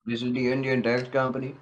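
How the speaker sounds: put-on Indian accent; mock Indian accent. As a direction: imitate an Indian call-centre guy. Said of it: "or Indian guy".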